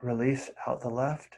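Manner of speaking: soft, brief cues between long silences; quietly pace each breath, a touch of meditation voice; guided breathing. Real, not acted. Teacher counting students through nostril breathing, soft meditation guiding.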